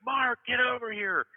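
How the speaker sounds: high, drawn-out retold holler; imitated calling out. Manager calls him over from a hundred feet away, calling out. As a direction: call over as if across a distance.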